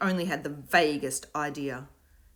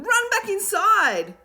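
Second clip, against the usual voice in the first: loud, high order; cried out; 10 dB louder, slower than usual. A narrator's reading. Will orders the startled children to run, shouting. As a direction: shout the command.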